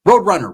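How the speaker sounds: "Roadrunner" with the weight on "runner"; stress on runner. Shown as a demonstration. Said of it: "Emphasis on runner".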